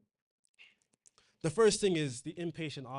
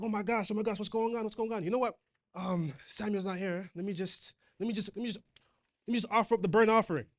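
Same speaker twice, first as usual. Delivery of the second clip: lightly acted flustered panic, rushing to the end; a hint of a nervous king talking himself into it; mock panic; 4 semitones higher, faster than usual. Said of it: "He started panicking".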